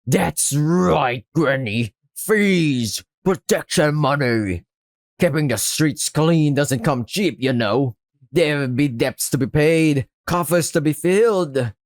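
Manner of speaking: lightly voiced pirate racketeer; touch of menacing pirate drawl; pirate act. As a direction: spell out the shakedown like a pirate. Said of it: "Whatever this pirate act is supposed to be".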